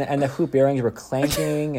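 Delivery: usual speaking voice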